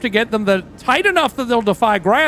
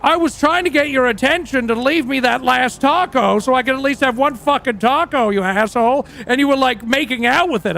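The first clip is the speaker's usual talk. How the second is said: higher, heated rant in the bandmate's voice; mock-angry bandmate, pitched up; pissed-off bandmate; 4 semitones higher than usual. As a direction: rant at him like a bandmate robbed of a taco. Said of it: "And he was fucking pissed".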